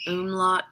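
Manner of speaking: "umlaut" as OOM-lot; unsure "umlaut", first vowel as in "boom"; trying a pronunciation. Shown as a demonstration. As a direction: try "umlaut" with an oo at the start. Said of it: "I don't know how to pronounce it".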